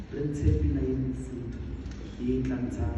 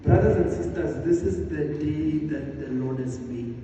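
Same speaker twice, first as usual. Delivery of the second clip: loud, high call to the congregation; projected greeting; 3 semitones higher, 8 dB louder than usual. Real, not acted. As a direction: lift it to fill the hall. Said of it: "I would like to hear myself".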